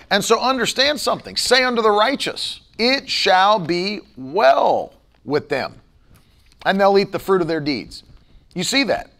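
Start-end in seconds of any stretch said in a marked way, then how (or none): 1.4-8.0 measured, emphatic verse recitation; scripture reading. Acted. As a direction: recite it deliberately, stretching the key promise.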